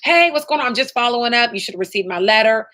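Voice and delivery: bright, upbeat phone greeting; cheery follow-up call. Shown as a demonstration. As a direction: sound friendly and casual on the call. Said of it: "now you're calling again".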